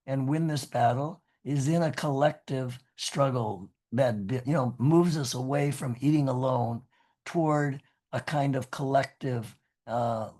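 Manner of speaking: hoarse, scratchy speaking voice. Real, not acted. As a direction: talk through a raspy throat. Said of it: "apologies again for my very scratchy voice".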